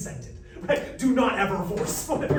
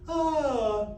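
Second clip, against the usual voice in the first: falling demo pitch; 7 semitones higher, 4 dB louder than usual. Shown as a demonstration. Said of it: "Can you identify the same pitch compared to up or down?".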